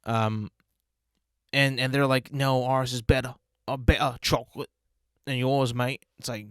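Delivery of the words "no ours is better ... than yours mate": mock British accent. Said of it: "I can use a British accent".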